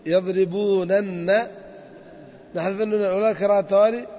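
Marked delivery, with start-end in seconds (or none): 0.1-1.5 يضربونن drawn out slowly with a rising end; stretched doubled nun. Shown as a demonstration. Teacher rebuilding the word step by step. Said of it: "فأول ما نبدأ في يضربون".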